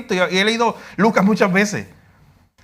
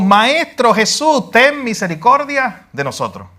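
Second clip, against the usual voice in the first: drawn-out cry for mercy, raised moderately; raised-voice plea; 2 semitones higher, slower than usual. Retold or imitated. Lepers calling to Jesus from a distance, raised-voice plea. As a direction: imitate lepers calling out from afar. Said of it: "alzando su voz".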